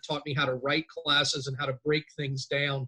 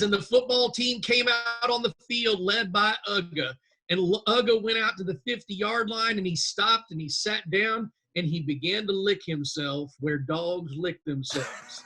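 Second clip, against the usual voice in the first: Southern drawl; 4 semitones higher than usual. Retold or imitated. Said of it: "And he says".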